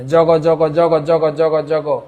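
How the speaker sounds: জগ repeated evenly, never reaching "nath"; broken-off name. Retold or imitated. Mahaprabhu fainting before the chariot, only managing repeated জগ. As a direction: run জগ together as a stuck syllable pair. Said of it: "পুরো জগন্নাথ নাম উচ্চারণ করতে পারতেন না".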